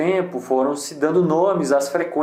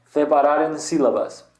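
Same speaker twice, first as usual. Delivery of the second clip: Spanish accent. Shown as a demonstration. Teacher naming the Spanish website, Spanish accent. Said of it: "falar com o meu sotaque em espanhol".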